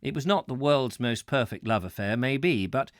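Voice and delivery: measured, projected read-aloud voice; book narration. Real, not acted. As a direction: read the travel book out to listeners, clearly phrased. Reads book aloud to viewers.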